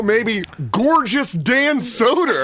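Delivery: playful cooing. Pretend. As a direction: linger coyly over the name. Playfully talks up a comic.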